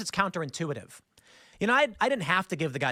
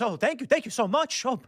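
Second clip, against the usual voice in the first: higher, gushing thanks, lightly imitated; grateful driver; 5 semitones higher than usual. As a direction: imitate the driver overflowing with gratitude. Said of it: "his demeanor changes instantly".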